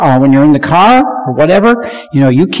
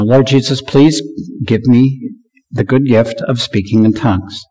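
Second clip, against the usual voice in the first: soft demo prayer; 5 semitones lower, 4 dB quieter than usual. Shown as a demonstration. Pastor models a prayer for the seeker, softly. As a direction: model a gentle prayer for them. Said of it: "I sometimes have to help them".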